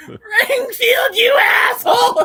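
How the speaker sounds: high shouted mock Dracula, laughing. Fan reenacting Dracula's last words, loud and laughing. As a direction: yell it as the betrayed vampire. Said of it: "all Dracula says is".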